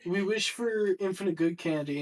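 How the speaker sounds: put-on high eager child voice; kids' voice. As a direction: pipe up like hopeful kids. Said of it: "They're like".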